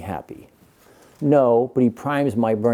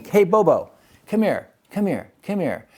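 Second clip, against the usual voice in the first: high sing-song call to the dog; 7 semitones higher than usual. Real, not acted. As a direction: coax the dog over to you, pitched up. Calling his dog over.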